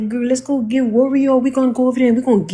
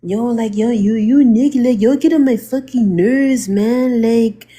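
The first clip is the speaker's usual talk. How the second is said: mock Hispanic accent. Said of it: "you can tell a Hispanic accent".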